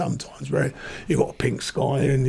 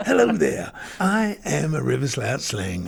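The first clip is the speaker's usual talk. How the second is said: character voice; slower than usual. Shown as a demonstration. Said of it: "it's about the River Slouch Sling, about my character".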